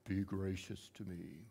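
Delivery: low, soft mock-holy voice; hammed-up pious prayer tone; put-on spiritual voice. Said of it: "change your voice".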